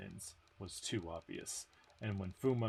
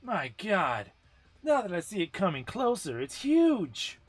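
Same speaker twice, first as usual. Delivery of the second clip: higher, louder cry of alarm, rising to "huge"; 9 semitones higher, 7 dB louder than usual. Acted. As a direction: gasp as the giant bears down. Character panics at approaching golem.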